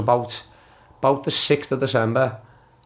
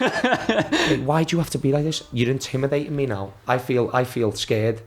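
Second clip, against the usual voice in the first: higher, hammed-up frightened plea; mock scared; 4 semitones higher than usual. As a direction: overplay the victim. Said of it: "I'm even more selling it now".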